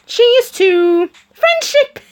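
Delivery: slow, drawn-out sappy toast; cheesy toast. Acted. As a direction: overdo the sentiment. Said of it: "I know it's cheesy".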